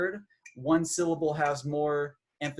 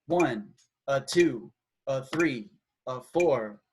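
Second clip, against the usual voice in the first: long number, quick "a" before the next; dotted rhythm count; slower than usual. Shown as a demonstration. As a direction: count with a lopsided long-short lilt. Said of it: "and it would be".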